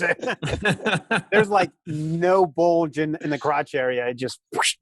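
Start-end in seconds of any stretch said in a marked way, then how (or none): 4.5-4.8 short rushing whoosh noise; imitated whoosh. Joking about the missing bulge, imitated whoosh. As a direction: make a quick swish of air.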